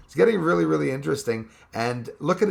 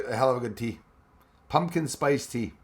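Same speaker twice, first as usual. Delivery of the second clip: ordinary talk, nothing marked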